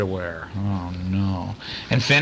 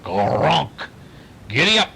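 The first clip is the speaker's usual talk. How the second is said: yelled; 4 semitones higher than usual. A narrator's reading. Child spurring the gator to ride, yelling. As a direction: urge the alligator on, shouting. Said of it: "Craig yelled".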